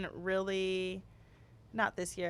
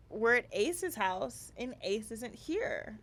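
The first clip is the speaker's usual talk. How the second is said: put-on slow, drawn-out kid complaint; slow whiny toddler; slower than usual. Mother imitating son, slow sulky complaint. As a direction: mimic the little boy's sulky reasoning, slowly. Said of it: "He was like".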